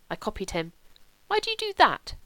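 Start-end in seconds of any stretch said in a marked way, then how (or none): 1.3-2.1 cross. A narrator's reading. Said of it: "he asked crossly".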